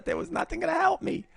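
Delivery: laughing shout. Real, not acted.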